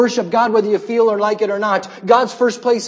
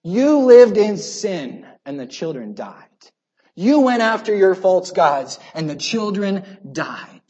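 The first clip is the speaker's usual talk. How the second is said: stern God; slower than usual. Acted. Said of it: "point his unseen finger right back at them and say".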